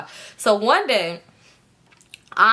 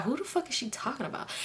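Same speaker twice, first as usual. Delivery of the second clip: under-the-breath confused question; hushed; 3 semitones higher, 13 dB quieter, faster than usual. Retold or imitated. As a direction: mutter it to yourself. Inner confused thought.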